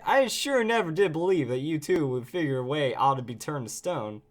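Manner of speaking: lightly voiced southern drawl; Nuzleaf. Nuzleaf never believed they'd escape stone, light southern drawl. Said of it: "southern drawl that we look for in Nuzleaf".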